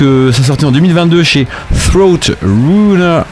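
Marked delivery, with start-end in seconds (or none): 1.9-3.2 band name in an English accent, drawn out. Shown as a demonstration. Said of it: "avec l'accent anglais évidemment".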